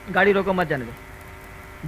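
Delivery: गाड़ी रोको as one slow command, pause, then मत जाने दो; slow order to stop, break right after रोको. Retold or imitated. Birbal orders the checkpoint, stress on रोको. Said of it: "हम जिस पर बल दे रहे हैं".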